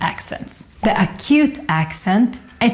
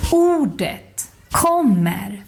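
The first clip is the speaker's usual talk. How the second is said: one peak per word on "ordet" and "kommer"; acute accent; much slower than usual. Shown as a demonstration. Teacher listing acute examples, "ordet, kommer" stressed first then down. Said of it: "stress in the first syllable".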